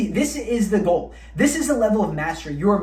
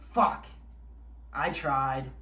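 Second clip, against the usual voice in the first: mock defeated; 6 semitones lower, 9 dB quieter, much slower than usual. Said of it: "you go".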